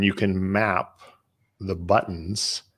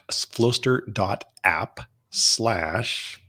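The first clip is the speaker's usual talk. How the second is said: spelled out slowly; 5 dB quieter, much slower than usual. Shown as a demonstration. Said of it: "special page for your audience".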